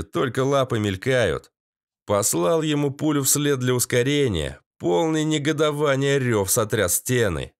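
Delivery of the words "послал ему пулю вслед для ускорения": ordinary delivery, nothing marked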